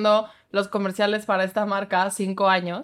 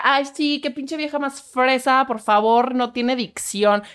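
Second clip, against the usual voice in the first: lightly voiced snob; a touch of sneering disdain; mocking a hater; 2 semitones higher than usual. Quoting a commenter insulting her voice, mild mocking sneer. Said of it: "o sea".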